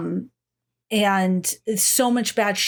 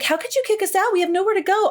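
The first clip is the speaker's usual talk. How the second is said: mock Ellen whining; 11 semitones higher, much faster than usual. Mocking Ellen pleading with the family, high whiny voice. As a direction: mimic a bratty victim's whine. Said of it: "and she's just like".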